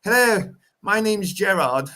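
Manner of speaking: mock posh English, high, slow; posh English accent. Mocking posh Scots who sound English, light posh accent. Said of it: "They sound English".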